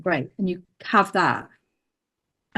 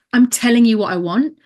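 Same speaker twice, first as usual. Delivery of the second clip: insistent, raised pitch and louder; pushed, direct intent; 4 semitones higher, 5 dB louder than usual. Shown as a demonstration. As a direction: really tell the other person. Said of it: "he really pushed you to be like".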